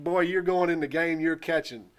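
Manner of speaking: imitating a fed-up dad laying down the law; retold upset dad. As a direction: order the kid in, exasperated. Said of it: "My dad's upset with me".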